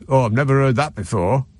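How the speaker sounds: a mild imitated Scottish accent, lightly done. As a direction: retell the guy's line in a hinted Scottish accent. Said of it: "and I'll do his accent".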